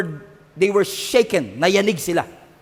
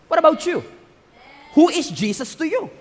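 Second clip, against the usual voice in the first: preaching shout; 7 semitones higher than usual. Real, not acted. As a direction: throw the question at them. Preacher challenges each listener. (malakas na hamon sa kongregasyon)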